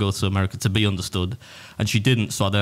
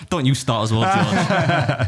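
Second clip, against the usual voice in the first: laughing protest; 5 semitones higher, much slower than usual. Real, not acted. Teased by George.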